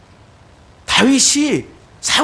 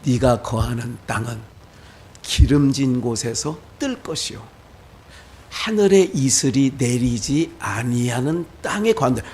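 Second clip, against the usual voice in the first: Isaac pronouncing; 8 semitones lower than usual. Retold or imitated. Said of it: "이삭이 이렇게 얘기해요".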